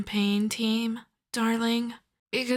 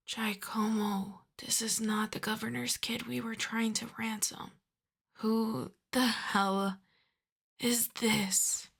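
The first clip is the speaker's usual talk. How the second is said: softer, tightly controlled exasperation; exasperated; 6 dB quieter than usual. Acted. Kidnapper boss turning from captive to bungling Giacomo, quietly exasperated. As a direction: quietly demand an explanation from the underling.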